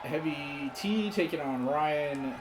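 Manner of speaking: live play-by-play call; wrestling commentator. Acted. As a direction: announce the match like TV wrestling. Calls the wrestling match.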